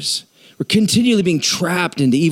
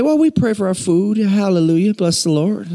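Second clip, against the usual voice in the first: hammed-up Southern churchgoer; folksy mock-Southern piety; Southern accent. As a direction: answer in a put-on Southern accent. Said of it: "I don't know why I'm Southern now".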